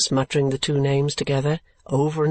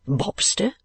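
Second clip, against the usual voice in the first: indignant; 6 semitones higher than usual. A narrator's reading. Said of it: "repeated Nicholas indignantly".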